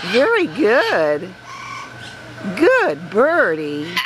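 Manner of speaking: slow, drawn-out praise for a pet; slow sing-song pet talk; cooing praise. Real, not acted. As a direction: praise a bird, stretching each word. Praising the pet bird slowly.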